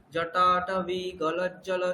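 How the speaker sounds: জটাটবি গলজ্জল said slowly, syllable by syllable; slow chant of জটাটবি গলজ্জল; slow recitation. Shown as a demonstration. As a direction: drag out জটাটবি গলজ্জল lazily. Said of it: "এরকম করে তাড়াতাড়ি করে বলতে".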